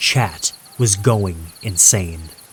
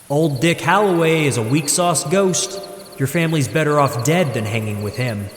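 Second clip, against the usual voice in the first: AI donation voice; 6 semitones higher than usual. Acted. AI voice reads troll donation.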